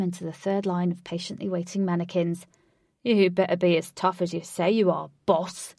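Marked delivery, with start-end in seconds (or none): 3.0-5.7 raised voice with some force; a contained roar, louder than the telling; mild roar. A narrator's reading. Ajax roaring at his boss, a mild roar. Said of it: "Ajax roared".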